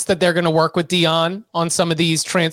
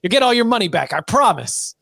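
hyped-up mock producer pitch; Hollywood pitch. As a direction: sell it like a movie producer. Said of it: "like a Hollywood pitch".

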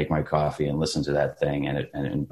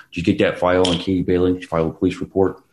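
put-on Philly accent; much faster than usual. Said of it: "pop it into it".

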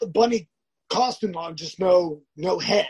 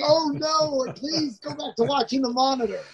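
higher, playful brush-off; embarrassed deflecting; 6 semitones higher than usual. Retold or imitated. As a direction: wave off the attention lightly. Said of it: "I'm just like".

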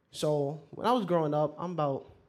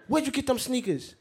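high, loud demand; angry grandfather; 9 semitones higher, 4 dB louder than usual. Retold or imitated. Confronting the boy over the sneakers, loud.

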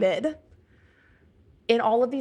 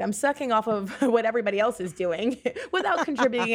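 laughing; faster than usual. Real, not acted. Laughs at calling herself parasite.

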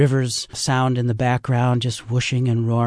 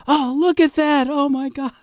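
put-on awed old rafter again; 3 dB louder than usual. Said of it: "And you go".

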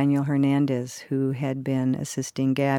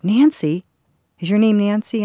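higher and louder, an eager question; calling out her name; 6 semitones higher, 7 dB louder than usual. Retold or imitated. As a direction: call her name out across the room to find her.

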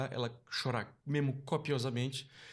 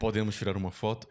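lightly put-on fan voice, a bit lower; voz de fã forçada; 5 semitones lower than usual. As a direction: ask for the photo in a faked deeper voice. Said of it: "Eu fiz uma voz mesmo". (voz de fã fingida, um pouco mais grave)

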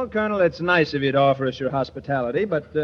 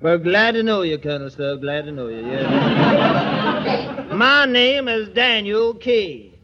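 Southern drawl; slower than usual. Pretend. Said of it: "you seem to have lost your southern drawl".

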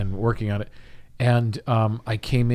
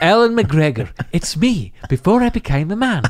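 high joke voice; 7 semitones higher, 3 dB louder than usual. Pretend. Joking character voice.

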